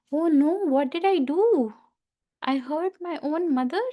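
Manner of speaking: gasping in mock dismay; shocked. Ganesh realizes he hurt his mother, shocked. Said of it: "Ganesh became so shocked".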